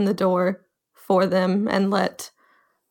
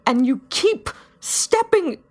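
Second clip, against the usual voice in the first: put-on grieving young leader; 3 semitones higher than usual. Ari's grieving confession in character.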